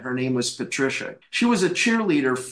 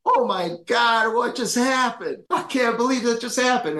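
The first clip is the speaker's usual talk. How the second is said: amazed; 8 semitones higher than usual. Retold or imitated. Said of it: "I was like".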